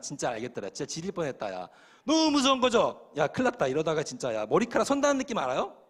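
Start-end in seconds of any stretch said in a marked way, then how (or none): 2.0-5.8 agitated fright. Retold or imitated. Retelling terror at the mountain.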